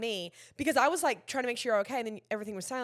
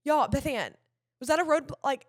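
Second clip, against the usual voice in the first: worried check-in; 3 semitones higher, 3 dB louder than usual. Retold or imitated. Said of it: "I'm like".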